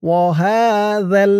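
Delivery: "হাযাল" slow, with soft th as in "that"; soft dhal recitation. Shown as a demonstration. Teacher joining the syllables, slow হাযাল with soft dhal. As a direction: draw out হা, soft tongue-tip sound in হাযাল. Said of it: "উপরের দাঁতের মাথার সাথে লাগবে".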